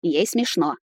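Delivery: plain reading voice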